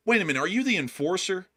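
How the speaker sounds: disappointed shocked fan. Retold or imitated. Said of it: "there's a specific inflection to their tone".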